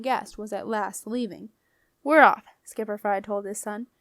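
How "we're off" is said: loud, higher-pitched call to leave; shouted order. A narrator's reading. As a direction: call it out sharply to the crew. Skipper calls out departure to son.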